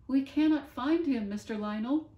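high, loud, crying Bonaparte; tearful Bonaparte. Acted. Bonaparte clinging to a tree, telling Lionel through high loud tears.

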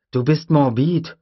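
put-on an eager kid asking; young boy voice. Tim asks Grant about breeding, high boy voice. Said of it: "sagte Tim".

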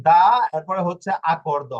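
দা and আকর্দ said slowly as separate parts; slow pronunciation demo. Shown as a demonstration. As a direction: spell out দা then আকর্দ slowly. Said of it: "বলার ক্ষেত্রে আপনাকে এখানে আর যুক্ত করে আর উচ্চারণ দিয়ে". (ধীরে উচ্চারণ দেখানো)

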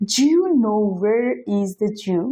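slow demo with "Do you" squeezed to "Jew"; native fast blending. Shown as a demonstration. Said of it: "এরকম যদি কোনো sentence বলে".

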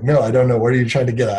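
retold frustration. Husband re-enacts answering his wife's repeated questions, frustrated. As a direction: re-enact being fed up with probing questions. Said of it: "I was, like, really frustrated".

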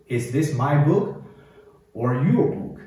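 measured model reading for repetition; 领读示范. Shown as a demonstration. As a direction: read each phrase, then pause for the learner. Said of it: "我专门留出时间来给你读哦". (逐句领读，留停顿)

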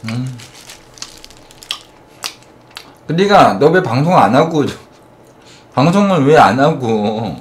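chewing between words; talking while chewing. Real, not acted. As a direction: mouth full of meat. Seen 1: Meat bitten at -1.0; jaw and cheeks keep working while talking.

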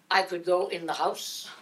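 slow, laughing question; laughing disbelief. Retold or imitated. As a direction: ask it amazed and giggling. Anton amazed, laughing.

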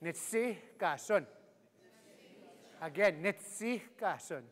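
"Nitsiikasun" slowly, the H a puff of air; breathy H. Shown as a demonstration. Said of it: "that H is a breath of air".

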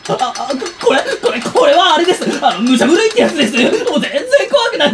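loud, stammering nervous laugh; flustered laughing excuse; shaky excuses. Acted. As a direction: cover up trembling fear. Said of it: "手、震えてるわよ".

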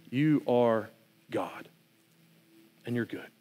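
humble prayer. Acted. Voicing a prayer of surrender.

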